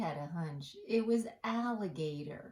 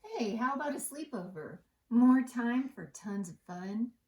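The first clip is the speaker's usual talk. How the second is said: excited Pete; 5 semitones higher, 8 dB louder than usual. Acted. Pete proposes a sleepover excitedly.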